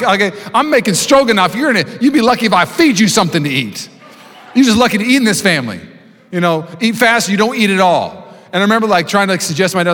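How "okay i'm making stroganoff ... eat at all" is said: raised, lecturing dad voice; mock stern dad. Dad lecturing his son at dinner, mock stern. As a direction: scold like an old-school father. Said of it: "He was like".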